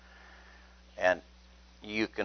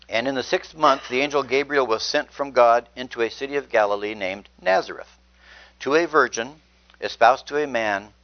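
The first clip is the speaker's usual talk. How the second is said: scripture reading. Acted. Preacher reading the annunciation aloud, raised and proclaiming. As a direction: proclaim the verses to the room.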